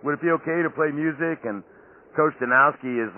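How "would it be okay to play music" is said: sheepish. Retold or imitated. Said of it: "they're real sheepish".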